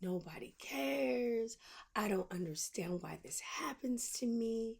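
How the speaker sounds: whispered self-pity, voicing her old self. Mocking her unhealed self with a self-pitying whisper. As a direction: breathe it out like a sorry-for-herself past self. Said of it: "whatever version of me would have been like".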